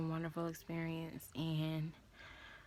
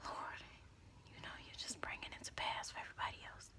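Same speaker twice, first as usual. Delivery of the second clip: much softer, whispered complaint to God; retold prayer; 13 dB quieter, faster than usual. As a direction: murmur it like a private plea. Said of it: "I'm like".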